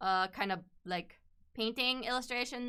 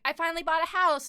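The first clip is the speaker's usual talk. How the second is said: mock excited announcement; 7 semitones higher, 6 dB louder, faster than usual. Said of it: "she was like".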